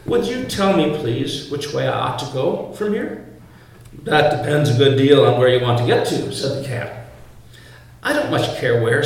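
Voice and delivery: lightly voiced reading of Alice and the cat; a preacher reading a storybook passage with light character voices; story reading. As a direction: read the tale aloud to the congregation. Reads Alice passage aloud.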